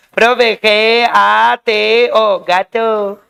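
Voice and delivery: "G A T O" slowly chanted letter by letter, then "gato". Acted. Teacher mimics a student spelling for the teacher, "G A T O" slowly chanted. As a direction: draw out each letter of "G A T O" like a child spelling. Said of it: "Tú no puedes venir a decirme acá".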